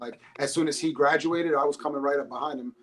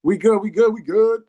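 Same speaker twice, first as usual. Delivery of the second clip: loud, upbeat all-clear, repeating it; loud reassurance; 7 semitones higher, 9 dB louder than usual. Real, not acted. Tells the host the phone is fine, loudly.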